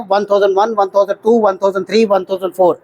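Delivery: steady "वन थाउजेंड टू" count; counting seconds in English. Shown as a demonstration. Instructor giving the English version of the even count. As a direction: pace each "थाउजेंड" evenly. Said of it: "English में हम करते हैं".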